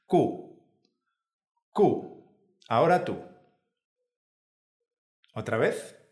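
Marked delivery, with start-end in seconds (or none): 0.0-2.2 "Q" said "ku" with hardly any air on the K; unaspirated K. Shown as a demonstration. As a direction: release the K of "Q" without a puff. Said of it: "Intenta sacar el mínimo aire posible".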